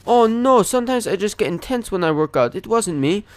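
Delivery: high-pitched, put-on excuse-making voice; impression of older man. Accused gym member excusing himself to staff, high-pitched impression. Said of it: "do my best impression of him".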